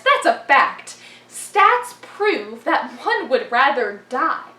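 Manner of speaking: animated spoken-word delivery; poem recitation. Acted. Performer addressing forensics as a complicated lover, animated poem recitation. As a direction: slam poem with punched words, swinging in volume.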